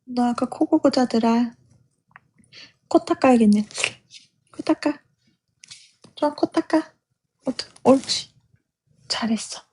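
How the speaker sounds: gentle coaxing pet talk; talking to a dog. Real, not acted. Soothing the dog, wiping its nose.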